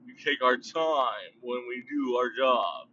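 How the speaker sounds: slow, stretched delivery; slow emphatic. Shown as a demonstration. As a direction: draw the words out slowly. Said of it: "I got that weird, funny accent".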